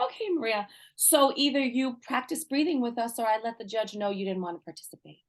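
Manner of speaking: mild imitation of a calm, collected counselor; lightly voiced cool warning, even and unbothered; calm collected threat. Counselor to the angry teen, mild mock calm warning. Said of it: "Just like that, so collected".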